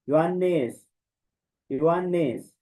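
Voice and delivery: योहानेस with a long o; योहानेस, long o from omega; omega o sound. Shown as a demonstration. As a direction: stress the o in योहानेस. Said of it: "ओ की sound देगा ना ओमेगा".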